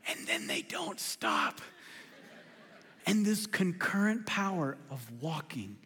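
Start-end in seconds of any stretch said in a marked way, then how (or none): 0.1-1.6 whispered dry punchline, low and slow; deadpan whisper. Real, not acted. To the congregation about chatty toddlers, a whispered deadpan. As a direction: drop to a breathy aside for the joke.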